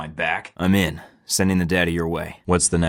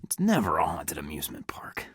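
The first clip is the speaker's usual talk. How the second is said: whisper; 5 dB quieter than usual. Acted. Tense infiltration, hushed aside.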